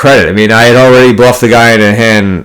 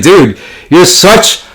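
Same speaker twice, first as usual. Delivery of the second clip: slow, drawn-out, higher sneer; mock contempt; 5 semitones higher, slower than usual. Player retells taunting a showboating opponent, slow mock contempt. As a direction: lean on every word to belittle him.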